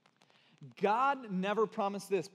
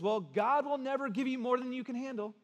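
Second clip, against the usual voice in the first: well-meaning person; 6 semitones higher than usual. Retold or imitated. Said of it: "some well-meaning, intended person says".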